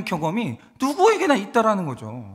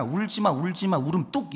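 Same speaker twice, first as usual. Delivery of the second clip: put-on softer, soothing a crying child; quiet it down like a parent; hushing a child; 3 semitones lower, 6 dB quieter than usual. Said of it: "애들이 울면 제일 먼저 하는 말이".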